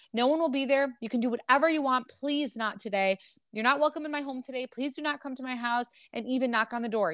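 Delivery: lightly acted plea, urgent and insistent; retold pleading. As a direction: read out his appeal with mild urgency. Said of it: "He's pleading with her".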